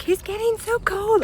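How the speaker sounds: high, fussing daycare worker voice; mock daycare teacher. Mocking the daycare teacher who scolded her, in a high fussing voice. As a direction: imitate the fretting teacher in a high voice. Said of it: "And they were like".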